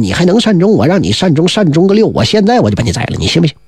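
a hint of an irate emperor scolding; mild mock fury of a tyrant; lightly voiced angry king. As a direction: scold him like a tyrant with little change of voice. King rages at Xibo Hou.

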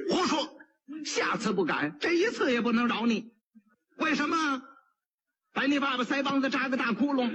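a touch of a scolding judge; angry magistrate. Acted. Magistrate rebuking the pot seller, mildly angry. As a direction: snap the rebuke from the bench. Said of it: "知县一听就火了".

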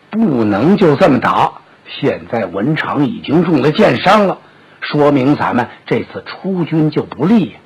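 anxious elder brother. Acted. Liu Bei voiced low.

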